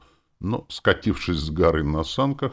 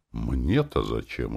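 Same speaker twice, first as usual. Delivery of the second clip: slow, lower mild surprise; surprised; 6 semitones lower, 4 dB quieter, slower than usual. A narrator's reading. Fixie puzzled by the hero's invitation, mild slow surprise. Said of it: "удивилась она".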